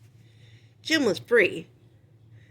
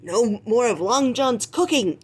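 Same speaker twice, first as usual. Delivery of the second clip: yelling pirate; 4 semitones higher, 4 dB louder than usual. Acted. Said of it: "yelled another".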